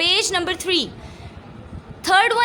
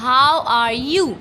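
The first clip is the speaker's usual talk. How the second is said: slow, steady and polite; a slow, careful, polite "How are you?"; respectful formal greeting; 3 semitones lower, much slower than usual. Shown as a demonstration. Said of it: "आप respect से क्या बोलते हो?".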